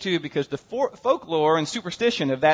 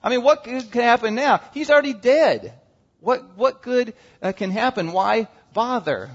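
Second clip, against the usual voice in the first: higher, sighing mock despair; discouraged voice; 6 semitones higher than usual. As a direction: voice a weary Mary giving up. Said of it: "It's like".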